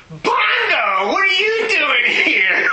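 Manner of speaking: high, loud surprised call; surprised greeting. Retold or imitated. Psychologist looks up from his desk, high loud surprise. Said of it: "he says".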